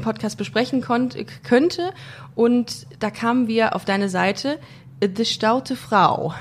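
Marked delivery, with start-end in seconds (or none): 5.1-6.4 slow, careful Dutch accent on the name. Shown as a demonstration. Host saying the site name in a Dutch accent. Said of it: "mit dem niederländischen Akzent zu sagen".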